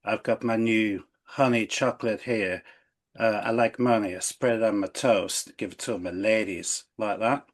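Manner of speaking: put-on a light, half-hearted Dubai influencer accent; lightly put-on Dubai accent, showing off a pricey honey; mock Dubai influencer accent. Host plays a Dubai influencer boasting about honey, light mock Dubai accent. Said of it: "that's an influencer from Dubai".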